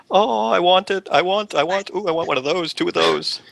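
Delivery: squeal-pitched wanting, hammed up for fun; covetous excitement. Techie acting out a look at Topher's office, gleefully covetous.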